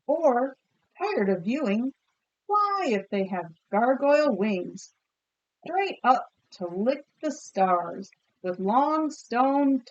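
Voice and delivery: measured storybook reading to a class; picture book read aloud. A narrator's reading. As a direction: read it like a story for kids, savouring each image. Teacher reads picture book aloud.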